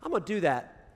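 "You know what?" jumps very high, then drops; sudden eager exclamation. Pretend. Pastor modelling new church language, sudden eager exclamation. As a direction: burst out with sudden resolve. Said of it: "develop some language where we were just like".

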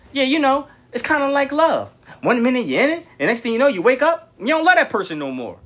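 high, lightly voiced woman friend; cousin's friend quoted. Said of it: "all I heard my cousin friend say".

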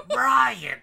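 high laughing yell; laughing shout. Real, not acted. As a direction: shout the name through laughter.

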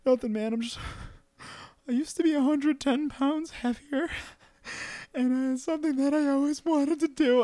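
high, choked-up confession; emotional, teary. Retold or imitated. Runner telling a stranger about his weight loss, teary and high. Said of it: "And I'm like".

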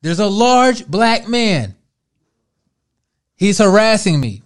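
mock distress call, high and loud. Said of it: "her voice goes into a higher octave immediately".

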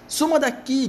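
high squeaky rat voice. Acted. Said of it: "disse a carinha".

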